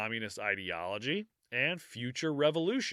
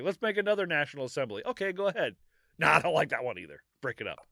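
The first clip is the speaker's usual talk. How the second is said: mock king and assembly; 3 semitones higher, much faster than usual.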